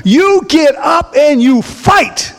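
slow, high, shouted rally cry; rally them to fight; fiery exhortation. Real, not acted. Preacher rallying the congregation to fight, slow shout.

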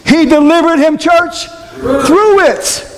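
high, swelling pulpit preaching. Acted. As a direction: drive the point home from the pulpit. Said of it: "I'm preaching".

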